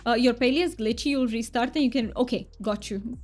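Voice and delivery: a thick, hammed-up Romanian accent, played for fun; mock Romanian accent. Streamer chats with viewers in a mock thick Romanian accent. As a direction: streamer puts on a joke Romanian accent for chat. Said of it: "But I will be talking in this".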